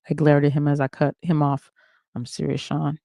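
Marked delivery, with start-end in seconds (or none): 2.2-3.0 a quiet seething warning; gritted teeth. Acted. She warns Sean through gritted teeth, quiet and seething. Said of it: "through gritted teeth".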